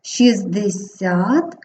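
"шістдесят" with T dropped, shiz-desyat; simplified pronunciation. Shown as a demonstration. Teacher modelling for pupils, "шістдесят" said without the T. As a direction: say "шістдесят" slowly, no T before D. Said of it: "вимовляємо шістдесят".

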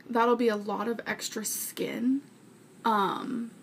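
dog snoring behind the speaker; snoring in background. Real, not acted. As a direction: talk over a dog snoring nearby. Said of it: "if you hear that snoring, that's my dog".

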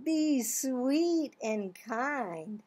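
slow and sweet; tender, easing it out; gentle. Acted. Reading about baby chicks, slow and tender.

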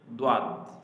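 দোয়াত with lips pushed out like a pipe; rounded lips. Shown as a demonstration. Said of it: "মুখটাকে একটু পাইপের মতো". (পাইপের মতো ঠোঁটে দোয়াত)

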